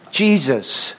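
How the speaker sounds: Jesus said slowly for the room to echo; slow call to repeat. Shown as a demonstration. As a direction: lead the congregation line by line. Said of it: "everybody say this after me".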